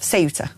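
Ceuta said SAY-oo-tah, S start; Ceuta starting SAY, ending tah; southern Spanish pronunciation. Shown as a demonstration. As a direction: say Ceuta quickly with an S. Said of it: "In Spanish, especially in southern Spain".

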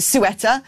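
Sueta said soo-ETT-uh; Sueta, S start and short E; listener's pronunciation. Shown as a demonstration. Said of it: "Kevin calls it".

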